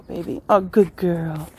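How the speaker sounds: normal talking voice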